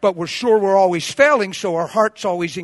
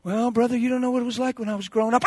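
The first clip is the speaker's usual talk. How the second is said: mock excuse-maker; 3 semitones higher, faster than usual. Mimics excuse of a believer.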